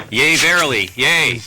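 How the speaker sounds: a playful olde English flourish for the exit; mock olde english. Mock Shakespearean sign-off.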